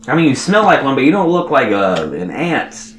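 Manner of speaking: wary ant creature speaking up high; ant character voice. Acted. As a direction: size up the stranger with suspicion. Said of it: "And he's like".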